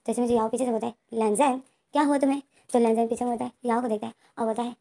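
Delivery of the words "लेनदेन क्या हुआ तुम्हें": startled shout after a friend walking away; shocked call. Retold or imitated. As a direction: call out louder in disbelief. Yao calls after Lendeng, shocked.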